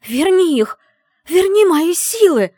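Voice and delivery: high, loud, slow desperate yell; shouted demand. Acted. Heroine screams at the mage to return her powers. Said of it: "выкрикнула я".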